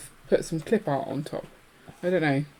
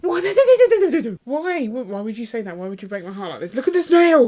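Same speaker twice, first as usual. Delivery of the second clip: mock-heartbroken protest; 6 semitones higher than usual. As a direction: protest like a playfully distraught fan. Playful protest after being told no.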